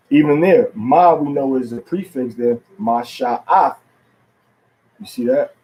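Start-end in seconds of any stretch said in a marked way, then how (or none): 2.8-3.8 Masha'ath with inflection on the next-to-last syllable. Shown as a demonstration. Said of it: "next to the last syllable".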